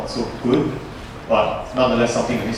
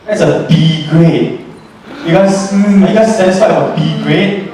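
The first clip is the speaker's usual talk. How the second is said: mock disappointment; 6 semitones higher, 5 dB louder than usual. Teasing class about B grade.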